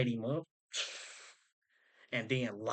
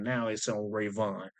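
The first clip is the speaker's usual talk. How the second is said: ordinary delivery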